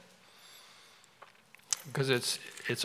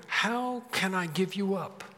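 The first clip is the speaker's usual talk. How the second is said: slow, slightly raised pondering question; 3 semitones higher, 3 dB quieter than usual. Acted. God wondering over wayward Ephraim, slow pondering. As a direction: draw it out as a pained question. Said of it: "you have this pondering".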